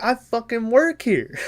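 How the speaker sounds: a high, indignant line broken by laughter; laughing retort. Retold or imitated. Retelling the teacher's retort while laughing. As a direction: laugh through the comeback.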